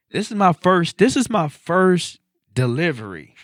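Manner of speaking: stunned disbelief. Retold or imitated. New driver sees the mansion, high and loud disbelief. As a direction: exclaim it in disbelief. Stunned at his first delivery.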